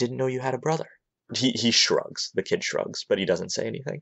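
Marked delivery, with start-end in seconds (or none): 0.0-0.9 high, soft, hushed half-whisper. Lucinia leans down to half-whisper to the kid so only Azazel hears: half-whispering. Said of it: "says very quietly".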